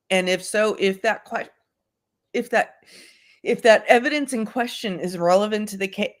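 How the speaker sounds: talking through hiccups. Real, not acted. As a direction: hiccups breaking the flow. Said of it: "talk through these hiccups".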